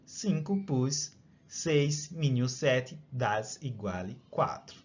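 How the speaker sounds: slow, lightly put-on Italian accent. Shown as a demonstration. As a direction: ease into a mild Italian accent. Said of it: "deixa eu tentar dar o sotaque italiano".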